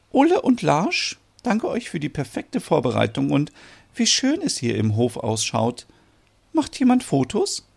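a hint of a gracious, pleased mother; lightly voiced Merit, pleased mother.

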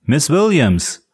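calling her name from outside; long called-out name. Acted. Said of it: "Eine Stimme rief".

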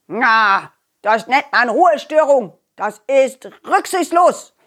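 a hint of a scolding old man, slow; lightly voiced cranky neighbour, dragging it out; stern grumpy neighbour. Neighbour scolds the noisy children, a touch stern and slow.

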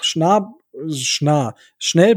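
tripping over the first syllable; stuttering start, then gets it out; stumbling. Real, not acted. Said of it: "Jetzt wollte ich schnell und nah in einem Wort sagen".

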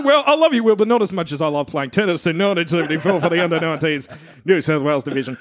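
John Burgess voice. Pretend. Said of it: "could you just, into the mic, just say".

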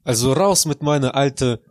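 mock Russian accent in broken German; fake Russian accent. Plays along with the segue in a Russian accent. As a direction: announce the old self in mock Russian. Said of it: "Raus mit dem scheiß russischen Akzent".

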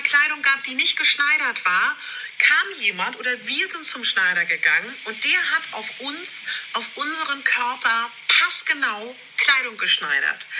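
ordinary talk

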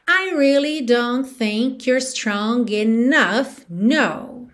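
slow, drawn-out lyric; song rhythm. Shown as a demonstration. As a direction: recite slowly to the song's beat. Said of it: "te dando no ritmo da música".

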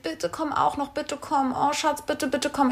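mock begging, on the soft side; imitated pleading. Boyfriend begging partner to come along, lightly imitated pleading. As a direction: coax like a pleading boyfriend, mildly. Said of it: "hat er mich angefleht".

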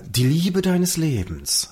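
slowly spelling out the line; feed the line slowly to the partner; slow line read. Shown as a demonstration. Podcast host slowly dictating the punchline line. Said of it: "du hast den Satz, äh, zu sagen".

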